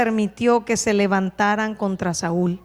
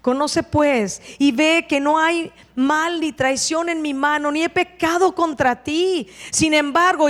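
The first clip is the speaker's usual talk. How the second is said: earnest respectful plea; 4 semitones higher than usual. Acted. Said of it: "con respeto le dice David".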